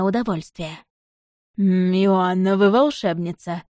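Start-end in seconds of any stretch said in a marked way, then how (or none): 1.6-3.6 speaking while chewing; words muffled by a bite of food; mouth full. Acted. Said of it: "Немного невнятно произнёс он".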